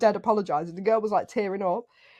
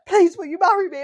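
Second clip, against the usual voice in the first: mock proposal; 9 semitones higher, 7 dB louder than usual. Ex proposing on one knee.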